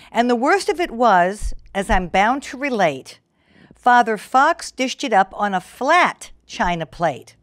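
lilting rhyming storybook read; story narration. A narrator's reading. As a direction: read the verse to children. Reads rhyming fable aloud.

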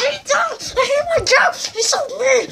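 high, loud crying whine; crying complaint. Pretend. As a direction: whine through pretend tears. Boy complains crying about dad.

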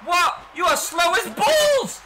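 high, loud, slow shouted insult; exasperated yell. Real, not acted. Gamer yelling at his slow baserunner in frustration. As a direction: bellow at the slow runner.

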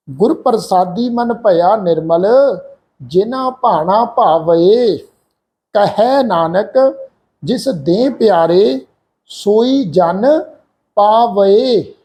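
slow, careful scripture recitation; recitation of gurbani. Shown as a demonstration. Teacher recites the Anand Sahib lines slowly for students. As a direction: recite the verse slowly, each word clear. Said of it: "ਇਹ ਪਾਠ ਆ ਜੀ".

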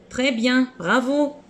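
high, cheerful teacher praise; bright praise. Real, not acted. (félicitations enjouées)

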